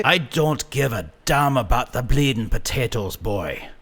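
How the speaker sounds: mild snapping grandfather. A narrator's reading. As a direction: cut the boy off sharply. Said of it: "he snapped".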